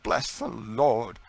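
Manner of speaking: Tom's emphatic thanks at being freed. Acted. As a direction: bless the Lord with slow emphasis. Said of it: "his emphatic".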